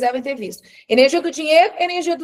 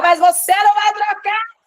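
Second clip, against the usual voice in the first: higher, louder, slow mock yell; 8 semitones higher, 5 dB louder than usual. Shown as a demonstration. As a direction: shout it as if losing it, slowly. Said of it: "Se eu começo a gritar e meter a louca". (grito encenado, mais alto e lento)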